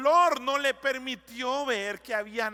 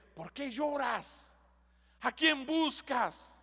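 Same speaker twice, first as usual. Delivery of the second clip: tender question; slower than usual. Acted. Jesus' question retold tenderly. (pregunta tierna, lenta y suave)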